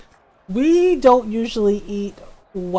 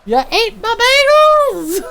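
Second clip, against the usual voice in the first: high, indignant accusation; mock outrage; 14 semitones higher, 7 dB louder, faster than usual. Mom accusing her daughter over the bagels, mock outrage. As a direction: accuse like a robbed mom, half-joking. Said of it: "I'm just like".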